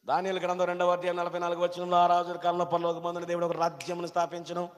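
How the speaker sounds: rapid recital on one level note; chant-like Bible quoting; scripture recitation. Real, not acted. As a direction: rattle off the verse evenly, barely varying the pitch.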